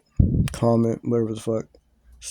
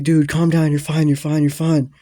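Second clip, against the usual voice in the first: imitated friend, raised pitch, insistent; urgent calming; 4 semitones higher, 5 dB louder than usual. Friend to panicking teller, urgent calming. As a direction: act out talking someone down urgently.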